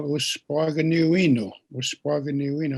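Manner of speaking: uspaganiuino, sounded out syllable by syllable for learners; teacher saying uspaganiuino for the class to learn; Cree word said slowly. Shown as a demonstration. Elder teaching the word uspaganiuino to listeners. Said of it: "there's another word I'll teach you".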